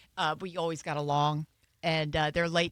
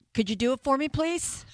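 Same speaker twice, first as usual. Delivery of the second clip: pleading; 7 semitones higher, 3 dB louder than usual. Retold or imitated. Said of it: "I'm like".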